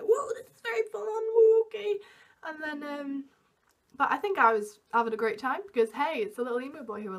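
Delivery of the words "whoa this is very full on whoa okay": taken aback. Retold or imitated. Overwhelmed by boy kissing her.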